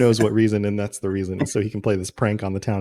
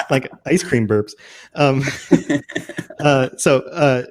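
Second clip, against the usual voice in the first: laughing; 2 semitones higher than usual. Real, not acted. Laughing at own burps.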